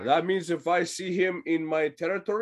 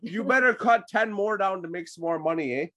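put-on Canadian accent; 2 semitones higher, faster than usual. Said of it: "our Canadian accent time".

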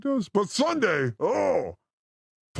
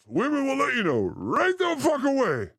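raised, fired-up rant; 6 semitones higher than usual. Acted. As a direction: push it out like a complaint. Mock outburst about women.

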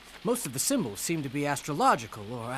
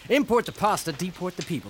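laughing; 4 semitones higher, 4 dB louder than usual. Acted. Host jokes while laughing.

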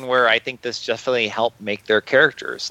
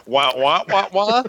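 muffled wah wah talk; 7 semitones higher than usual. Retold or imitated. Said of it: "doing the Charlie Brown, uh, sound effects for the teachers".

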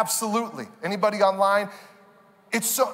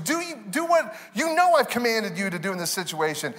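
commanding shout; 4 semitones higher than usual. Retold or imitated. Voicing God's command.

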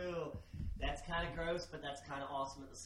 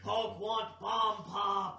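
slow, louder brute caveman talk; Hulk voice; 3 semitones higher, 6 dB louder, much slower than usual. Pretend. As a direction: grunt it out like Hulk.

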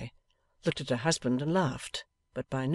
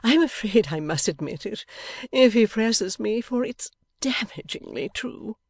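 gay confiding; 8 semitones higher, 5 dB louder than usual. A narrator's reading. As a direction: confess gaily, stretching the words. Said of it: "Missus Lammle gaily whispered".

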